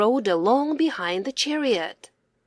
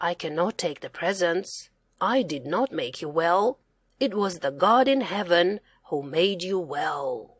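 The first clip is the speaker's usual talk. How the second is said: gentle prophet; 4 semitones lower, 4 dB quieter than usual. Acted. Prophet refuses presents gently.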